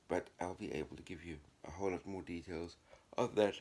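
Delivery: talking through a yawn. Real, not acted. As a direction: yawn mid-sentence. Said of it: "sorry for the yawning".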